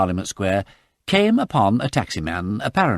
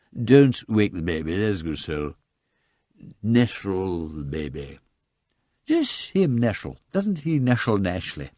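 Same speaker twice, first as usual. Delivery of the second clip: tipsy hushing. Acted. Lord Peter hushes Sugg about the sleeping baby, slow and tipsy. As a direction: coo over a sleeping baby, drunk.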